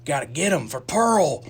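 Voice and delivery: hard cliche Southern drawl; mock a movie Southerner's thick accent. Friend mocking the war movie's characters, cliche Southern accent. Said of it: "like, Southern accents or".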